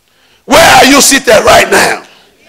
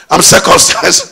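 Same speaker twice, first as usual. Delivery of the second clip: laughing mock disbelief; 5 semitones higher than usual. Goliath mocked, laughing.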